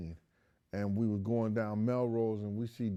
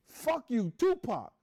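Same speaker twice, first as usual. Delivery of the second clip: much higher, mocking shout; high-pitched taunt flung over the shoulder; mock taunting yell; 4 dB louder, slower than usual. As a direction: jeer it like a kid about to bolt. Kid yells insult then runs.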